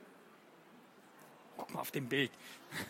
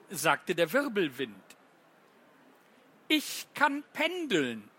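playful read-aloud with each object's line set apart; children's poem reading. Acted. Teacher reads the runkeln poem to children, playful and lively. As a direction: read it like a bedtime rhyme, light and lively.

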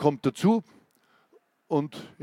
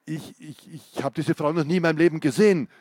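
stammering. Acted. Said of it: "stotterte er".

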